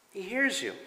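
he hears you, HEARS said softly, dropped right down; soft repeat. Shown as a demonstration. Pastor repeating to believers that God hears them, soft echo. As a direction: echo he hears you gently, pulled back.

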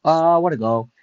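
cheering own goal in a match; excited cheer. Real, not acted. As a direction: celebrate the goal. Celebrating a goal.

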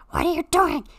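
loud high cry of alarm; startled shout at the cockpit. Acted. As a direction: yell it in sudden alarm. Alarm as plane drops.

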